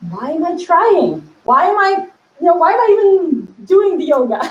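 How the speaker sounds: why am I even bothering?; exasperated whine about useless yoga; frustrated complaint. Retold or imitated. Frustrated inner voice, giving up.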